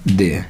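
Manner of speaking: "दे" ending on an open vowel, no r; correct pronunciation. Shown as a demonstration. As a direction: say "दे" with the final r silent. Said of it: "इसका सही phonetic हो जाएगा".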